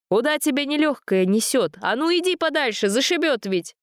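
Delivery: high, worried shout; anxious scolding warning; alarmed. A narrator's reading. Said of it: "засокрушался кузнец".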